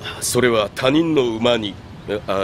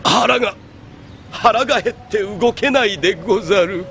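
weak and starving; 6 semitones higher than usual. Acted. Starving man pleading.

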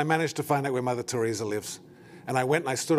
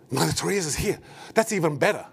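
mildly panicked, a little higher; mock panic; 4 semitones higher than usual. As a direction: act out a touch of starstruck panic. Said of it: "I, like, panic".

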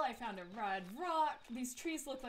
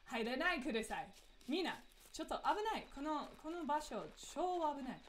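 reading the sign in Japanese. Shown as a demonstration. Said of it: "I won't do the Japanese".

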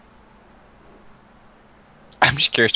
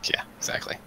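whisper; 10 dB quieter than usual. Real, not acted. Whispered aside during clip.

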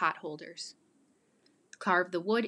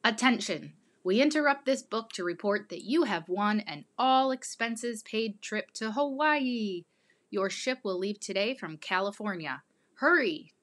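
booming prize announcer. Acted. Book interrupted by prize announcement.

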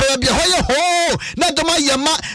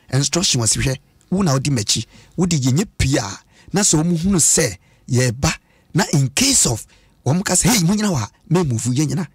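put-on young man's words; 10 semitones lower than usual. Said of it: "Aberanteɛ sɛ".

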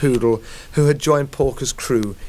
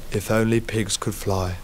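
wistful murmur; 2 semitones lower, 4 dB quieter than usual. Acted. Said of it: "murmured wistfully".

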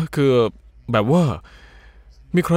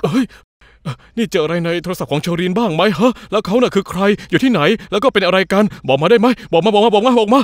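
pushy demanding; 4 semitones higher than usual. Acted. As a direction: hammer her with the same demand. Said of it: "จะพูดมากทำไมเนี่ยใจเย็นๆก่อน จะตะโกนทำไม?".

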